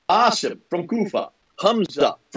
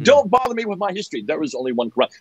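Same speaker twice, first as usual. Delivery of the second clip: mocking mantra. Mimicking a Muslim repeating the one-Quran mantra, mock voice. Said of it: "do that mantra over and over".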